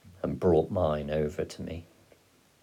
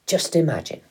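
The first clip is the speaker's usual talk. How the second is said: high, loud burst of enthusiasm; excited father; 10 semitones higher, 6 dB louder than usual. A narrator's reading. Father urging his son to picture poaching, excited. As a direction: throw it out with a thrill, pitched up. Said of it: "leaping off the bunk and waving his mug".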